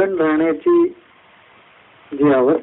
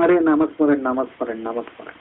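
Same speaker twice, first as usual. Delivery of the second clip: hurried repetition, fading lower and softer; mock flustered hurry; 4 semitones lower, 3 dB quieter than usual. Devotee who drifted off scrambles back to chanting, mock flustered. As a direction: act out a hasty scramble, trailing away. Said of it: "मग एकदम गडबड गडबड करून".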